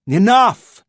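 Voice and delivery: stern halt; sharp command. A narrator's reading. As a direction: cut it off with one word. Boffin stops crow attack.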